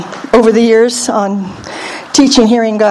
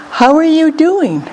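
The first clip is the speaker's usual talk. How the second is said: higher, lightly acted friendly hello; friendly greeting; 4 semitones higher than usual. Preacher showing how to approach somebody, friendly greeting. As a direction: lift it like a caring hello.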